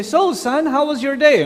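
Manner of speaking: cheerful dad. Retold or imitated. Father greeting teenage son.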